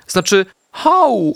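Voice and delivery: wysoko i powoli przeciągnięte „hau”; zgrywa, że tylko szczeka; piesek zmienia „au” na „hau”. A narrator's reading. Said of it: "odpowiedział Artek". (piesek udaje, że to było szczeknięcie „hau”)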